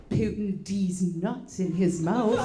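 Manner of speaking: slow mock-British delivery; British accent. Daughter leaning over to mom with a joke, British accent. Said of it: "she has a British accent".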